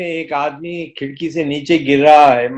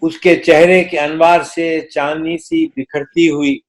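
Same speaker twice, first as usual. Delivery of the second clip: stately nazm recitation. Acted. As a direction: recite the poem with gravity.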